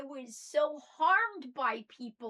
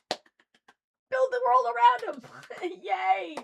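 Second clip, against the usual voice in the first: slow, much higher and louder cheer; 9 semitones higher, 10 dB louder, much slower than usual. Real, not acted. Cheering on parents who build a kid's world, drawn-out and loud. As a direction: stretch it out like a celebration.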